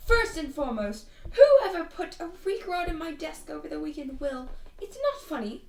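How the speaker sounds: high, hammed-up principal's announcement; a badly faked stern headmistress, pitched well up; Alina. School principal scolding whoever pranked her desk, hammed-up stern voice. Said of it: "that's a terrible Alina voice".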